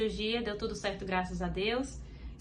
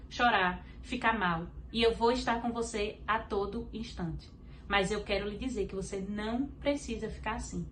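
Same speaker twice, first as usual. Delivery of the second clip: softer, calm and reassuring; gentle divine voice; 4 dB quieter than usual. Retold or imitated. The Holy Spirit comforting her in the car, softly reassuring. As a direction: speak as a comforting, tender presence. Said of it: "Ele falou".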